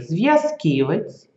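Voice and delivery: зв'язківець with a clear separate й-а after в; clear apostrophe sound. Shown as a demonstration. Teacher demonstrates зв'язківець clearly for pupils. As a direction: say зв'язківець as зв-йа-зківець, splitting в from я. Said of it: "чуємо її а".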